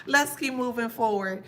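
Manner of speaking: usual speaking voice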